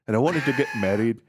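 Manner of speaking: a hint of a weary old wife; lightly voiced wife. Acting the wife's lament.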